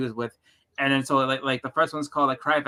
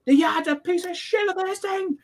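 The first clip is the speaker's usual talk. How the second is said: imitating angry comedian. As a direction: impersonate a grumpy old New Yorker. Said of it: "the guy's yelling and screaming".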